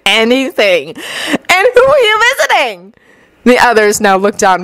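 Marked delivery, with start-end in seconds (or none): 1.5-2.9 sly. A narrator's reading. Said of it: "Renge asked slyly".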